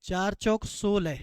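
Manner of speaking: चार चौक सोलह said slowly, each word spaced out; slow teacher recital of चार चौक सोलह; slow and deliberate. Shown as a demonstration. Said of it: "question को करना सीखें ध्यान से".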